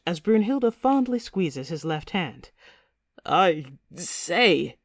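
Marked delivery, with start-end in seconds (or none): 3.2-4.8 mild squeak of pain; understated pained exclamation. A narrator's reading. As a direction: squeeze out a startled protest. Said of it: "he squeaks".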